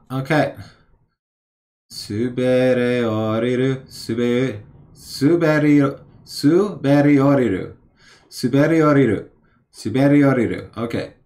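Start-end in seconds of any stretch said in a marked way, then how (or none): 1.9-7.8 slow, syllable by syllable suberi-; sounding it out slowly. Shown as a demonstration. Reading a flashcard aloud, sounding it out slowly. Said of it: "sounding it out". 8.3-10.7 Suberi oriru said fast and smooth; quick fluent read. Shown as a demonstration. Reading the flashcard back, fast and fluent. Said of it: "sounding it out".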